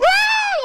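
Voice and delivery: very high, loud imitated shriek; sudden sustained high cry, imitating her; imitated scream. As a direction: let out a piercing mock scream. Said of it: "ela dá um grito".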